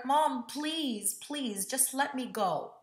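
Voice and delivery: high, pleading voice; begging. Retold or imitated. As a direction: beg mom desperately. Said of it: "But I begged her".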